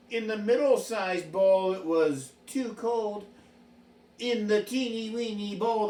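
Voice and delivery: put-on reading a fairy tale to children; story narration. A narrator's reading. Storyteller reading Goldilocks to a child. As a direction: tell it gently like a bedtime story.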